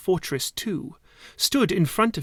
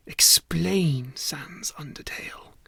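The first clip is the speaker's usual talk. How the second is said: whisper. Acted. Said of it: "Spy Fortress said to Sans Undertale".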